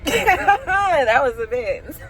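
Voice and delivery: drawn out slowly through laughter; laughing disbelief. Real, not acted. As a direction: laugh while repeating it.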